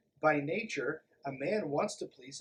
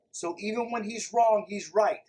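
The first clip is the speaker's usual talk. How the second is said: louder, mocking punchline voice; sarcastic; 4 semitones higher, 7 dB louder than usual. Vlogger sums up the book with mocking sarcasm. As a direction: spit out the absurd rule sarcastically.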